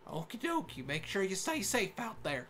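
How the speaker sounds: folksy Southern send-off; lightly hammed country accent; friendly cartoon Southern guard; stereotypical Southern accent. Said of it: "really offensive Southern accent".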